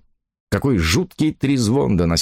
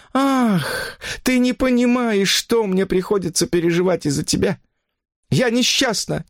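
much higher, plaintive woman's voice; unhappy woman; 13 semitones higher than usual. Acted. Mistress telling her lover she is unhappy, plaintive. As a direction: lament it, high and pleading.

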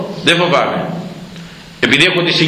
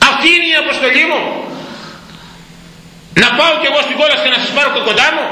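fiery preaching; 10 semitones higher, faster than usual. Real, not acted. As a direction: preach with mounting outrage. Preaching at full force. (φλογερό κήρυγμα με ψηλή, δυνατή φωνή)

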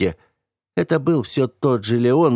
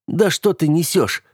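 heated; 6 semitones higher than usual. A narrator's reading. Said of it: "пылко произнёс я".

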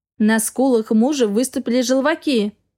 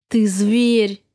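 through gritted teeth; 2 semitones lower than usual. A narrator's reading. Wife hissing at cruel husband through clenched teeth. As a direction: spit it out between clenched teeth. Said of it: "процедила сквозь зубы".

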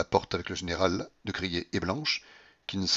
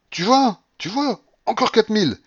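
very high, loud triumph; excited exulting; 9 dB louder than usual. A narrator's reading. Grandmother thrilled by a win, betting on, excited. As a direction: crow and demand more.

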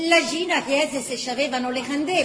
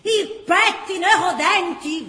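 slow, disgusted repetition; a hint of a mouth twisted in disgust; aunt echoing the boy's words in disgust; 2 semitones higher, 6 dB louder, much slower than usual. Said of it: "verciava la zia con la bocca schifata".

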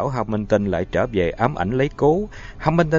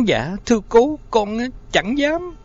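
terrified; 11 semitones higher than usual. A narrator's reading. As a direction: beg for mercy in terror. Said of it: "giọng như chìm xuống tận đáy của sự hãi hùng".

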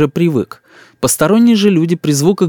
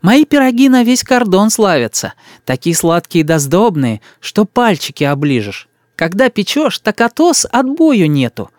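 put-on fussing old woman; 7 semitones higher than usual. A narrator's reading. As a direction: coo over the boy like a village granny. Old woman boasts of pies. (старушка причитает над мальчиком)

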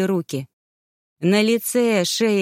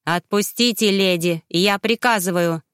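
sarcastic shout. Acted. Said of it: "язвительным тоном выкрикнул он".

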